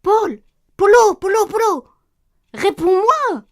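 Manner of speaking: high, loud calls for an answer; panicked yell, rising in urgency; frantic shouting. Acted. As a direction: shout for your missing partner. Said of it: "Crie pas comme ça".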